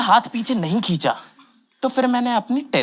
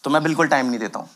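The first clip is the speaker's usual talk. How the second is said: quick throwaway repeat; तेज़, धीमी आवाज़ में; fast, lower and offhand; 6 semitones lower, much faster than usual. Shown as a demonstration. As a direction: rattle off "मैं बिल्कुल time नहीं देता" quickly, pitched low. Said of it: "मैं तो सीख लिया".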